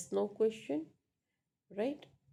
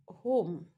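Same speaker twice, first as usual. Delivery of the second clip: HOME said firmly with a falling pitch; 4 dB louder than usual. Shown as a demonstration. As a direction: let "home" drop like a final answer. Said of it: "a falling tone".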